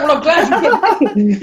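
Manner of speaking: slow, laughing reply. Retold or imitated. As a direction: grin through the words. Laughing retort to partner.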